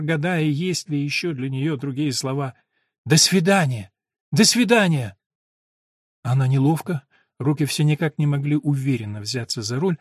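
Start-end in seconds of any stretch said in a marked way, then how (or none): 3.1-5.2 high calls goodbye; calling out. Acted. Eleanor waves from the car, calling out high. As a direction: send it out across the yard.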